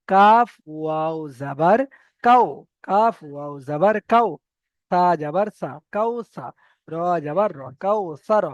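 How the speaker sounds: slow, drawn-out spelling chant; slow recital drill. Shown as a demonstration. Teacher chanting the practice reading slowly. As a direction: spell it out for learners.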